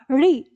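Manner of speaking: री from the roof of the mouth; retroflex demonstration. Shown as a demonstration. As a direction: curl the tongue back to say री. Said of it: "अब उच्चारण क्या होगा?". (री का मूर्धा से उच्चारण)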